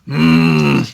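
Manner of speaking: deep thoughtful hmm; low hum of thinking; low pondering hum. Retold or imitated. Listener reacting to the scoreboard hit, low thoughtful hum. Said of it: "And I was like".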